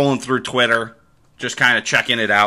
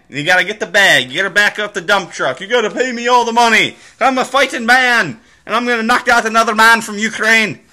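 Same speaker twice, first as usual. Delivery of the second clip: high, loud hammed-up Fury voice; mock Fury boast; 9 semitones higher, 4 dB louder than usual. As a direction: ham up a brash boxer bragging for cash. Mocking Fury's Twitter boast.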